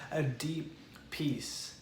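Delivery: hushed, slowed reassurance; tender emphasis. Real, not acted. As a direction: linger gently on the words. Soft slow on deep peace.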